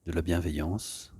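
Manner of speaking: calm, soft guiding voice with long pauses; unhurried yoga-class settling-in voice; guided meditation. Real, not acted. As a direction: ease them gently into stillness. Leads an opening meditation.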